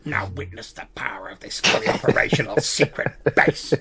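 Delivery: whispered villain boast; dragon voice. Acted. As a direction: hiss it like a menacing dragon. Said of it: "Stop impersonating a dragon".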